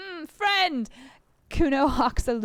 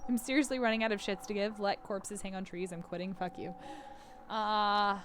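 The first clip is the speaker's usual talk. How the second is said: despairing; 3 semitones lower, 8 dB quieter than usual. Acted. Despairing inner voice.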